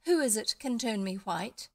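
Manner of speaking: clasping hands, overjoyed; joyful cry. Acted. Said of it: "cried Bumpo".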